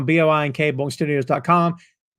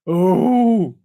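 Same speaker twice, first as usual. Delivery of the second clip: crowd "oh". Retold or imitated. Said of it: "the crowd went".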